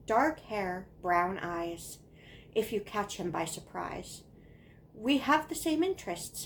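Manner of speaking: singsong, deliberate recitation; poem reading. Acted. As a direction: recite a child's friendship poem, pausing between lines. Reads childhood poem aloud.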